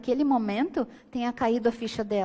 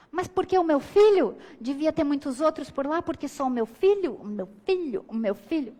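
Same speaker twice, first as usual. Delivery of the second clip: começa alto e indignada, depois repete baixinho; mãe indignada. Retold or imitated. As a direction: imitando uma mãe que insiste e vai murchando. Mãe insiste na delegacia. (mãe defendendo o filho, de alta e alta voz até sumir)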